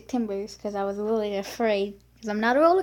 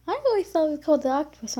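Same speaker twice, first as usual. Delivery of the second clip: fast, slightly higher mom admitting; mock mom; 3 semitones higher, much faster than usual. Mom admitting her mistake, quick imitated reply. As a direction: rush through the excuse. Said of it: "And she's like".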